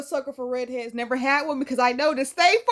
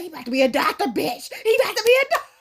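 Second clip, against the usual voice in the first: laughing quote; 5 semitones higher, 4 dB louder, much faster than usual. Retold or imitated. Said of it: "I was like".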